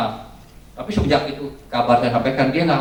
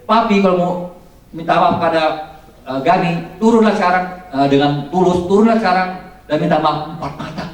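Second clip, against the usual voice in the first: imitated angry yell, high and loud; loud, halting shouted demand; angry shouting; 7 semitones higher, 6 dB louder than usual. Daughter shouts at Papi to come down and apologize, angry shouting. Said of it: "Jawabannya dari teriakan dia".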